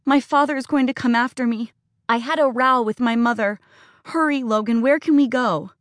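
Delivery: put-on girl begging Logan to hide her from her father; frightened girl. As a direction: beg him to hurry.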